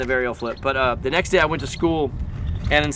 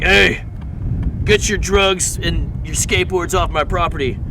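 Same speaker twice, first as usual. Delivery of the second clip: raised voice on the opening call, imitating an annoyed property owner; mock angry bystander; 3 semitones higher, 4 dB louder, slower than usual. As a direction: play someone mad, ordering skaters off. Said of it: "people would be so mad".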